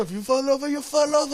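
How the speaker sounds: a hint of a no-nonsense ski coach; mimicking instructor. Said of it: "I love that though".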